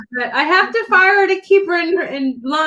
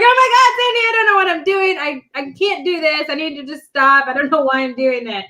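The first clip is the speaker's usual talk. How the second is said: retold freak-out. Retelling her nervous call to Sandy, mildly freaking out. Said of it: "I was freaking out".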